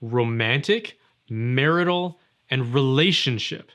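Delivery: "romantic", "marital", "relationship" each set apart and weighted; stress each word. Shown as a demonstration. Pointing the viewer at each key word, stressed. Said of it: "Let me emphasize the words".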